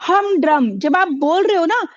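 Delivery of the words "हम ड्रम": हम ड्रम with pressure on each part; both syllables stressed. Shown as a demonstration. Teacher urges saying it yourself, both हम and ड्रम stressed. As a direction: give हम and ड्रम equal force. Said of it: "तो आपको ताकत लगानी पड़ रही है".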